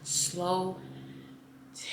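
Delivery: soft mantra. Shown as a demonstration. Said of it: "Say it with me".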